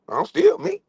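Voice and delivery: high proud squeak; gleeful. Real, not acted. Emphatic claim.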